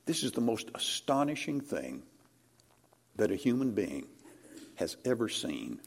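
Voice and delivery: awed quiet fading out; hushed awe. Acted. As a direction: drop to a hush of wonder. Hushed after climax.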